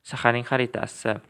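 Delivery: shaharning xaritasi said clearly in Uzbek, teacher pace; Uzbek model phrase. Shown as a demonstration. Teacher reading answers to learners, clear Uzbek. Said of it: "so the answers are".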